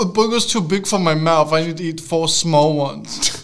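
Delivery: put-on helpless little voice; mocking whiner. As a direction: whine it slowly like a fussy eater. Mocking slider orderer as babyish.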